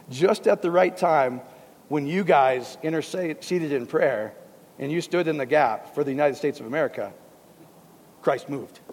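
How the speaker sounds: slow, mocking misquote of the verse; a knowing send-up of a misquoted verse; mock wrong reading. Shown as a demonstration. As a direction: read it the wrong way, as a sly parody. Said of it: "Is that what it says?".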